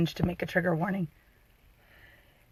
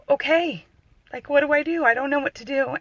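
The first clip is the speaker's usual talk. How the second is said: choked up, higher pitch after long pauses; real upset in a raised voice; emotional; 4 semitones higher than usual. Real, not acted. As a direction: push through rising emotion. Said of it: "This makes me emotional".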